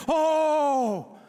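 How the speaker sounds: high, loud mock fussing coach; coddling coach. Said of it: "what if my coach was like".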